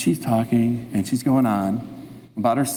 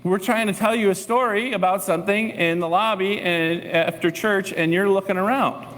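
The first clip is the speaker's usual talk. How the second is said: higher, aggrieved church lady voice; complaining older lady; 6 semitones higher than usual. Retold or imitated. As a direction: imitate her hurt complaint, pitched up. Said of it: "She's like".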